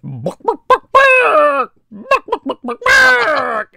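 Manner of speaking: barks that climb fast into high, loud yelping shouts; barking caller. Retold or imitated. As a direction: start with a mild bark, then bark wildly like a crazed dog. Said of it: "the guy at the other end's going".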